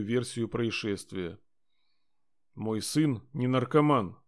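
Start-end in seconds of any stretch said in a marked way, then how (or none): 2.5-4.2 slow, firm cutting-off statement; curt and final. Acted. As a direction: shut the topic down flatly. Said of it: "сказал, как отрезал".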